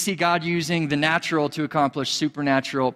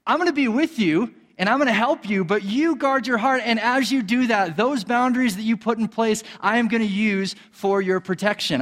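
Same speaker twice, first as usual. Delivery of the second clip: a lightly raised, earnest voice of God; voicing God; 5 semitones higher than usual. Preacher voicing God telling believers to guard their hearts. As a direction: speak as a caring father giving a charge. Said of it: "he's saying".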